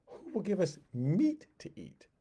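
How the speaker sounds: a lightly voiced whiny crowd; a hint of a sulking crowd begging; complaining Israelites. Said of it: "the mixed multitude's complaining".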